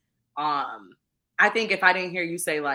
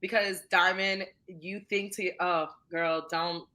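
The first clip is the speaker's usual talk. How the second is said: fighting back tears; 3 semitones higher than usual. Real, not acted. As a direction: struggle through it without crying. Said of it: "I'm trying my hardest not to cry".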